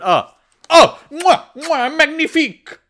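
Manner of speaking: french chef. Pretend. Praising the shot like a chef.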